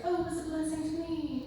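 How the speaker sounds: mocking the line everyone says; cliché mission-trip gush. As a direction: parrot the stock phrase lightly, "Oh" leading high then falling. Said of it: "you're always like".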